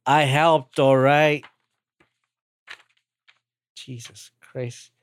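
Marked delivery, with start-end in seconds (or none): 3.8-4.9 muttered aside. Real, not acted. Exasperated aside.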